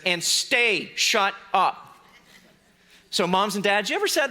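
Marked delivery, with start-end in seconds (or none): 0.1-2.0 very slow, each word laid down firmly; slow firm command. Acted. Jesus telling the storm to stay silent, slow and firm. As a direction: spell it out slowly, no argument. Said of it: "the second thing he says is".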